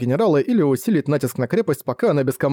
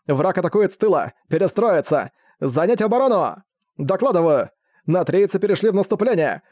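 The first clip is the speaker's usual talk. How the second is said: panicked shouting; 4 semitones higher than usual. Acted. Generals panic, shouting orders.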